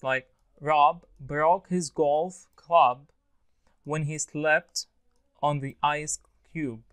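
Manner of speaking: slow, with voiced final B on "Rob", "club", "cube"; clear B endings. Shown as a demonstration. Teacher giving a B endings example, slow and fully voiced. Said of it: "B endings".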